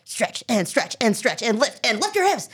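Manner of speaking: coaching commands in a mock Russian accent. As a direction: count out stretches in a light Russian accent. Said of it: "a very cool Russian accent".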